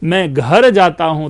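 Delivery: घर punched; stress on घर. Shown as a demonstration. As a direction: hit the word घर. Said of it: "कुछ भिन्न अर्थ होता है". (घर पर ज़ोर)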